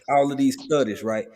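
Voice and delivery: choppy cutting-out call audio; radio breaking up. Real, not acted. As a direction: voice dropping out on a bad line. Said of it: "you sound like you breaking up".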